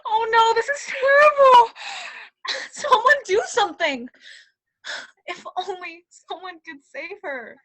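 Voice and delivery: hammed-up despair. Hammed-up despair over queen.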